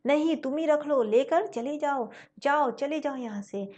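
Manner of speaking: loud tearful shout, not full force. Acted. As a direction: yell at him to leave, tearful. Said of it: "चीख चीख कर बोलता है".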